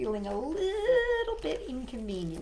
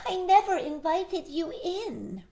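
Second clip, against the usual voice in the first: higher, firm rabbit leaning on "never"; stress on never; 9 semitones higher, 4 dB louder than usual. Acted. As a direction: lay it out firmly, "never" pressed. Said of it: "Rabbit explained".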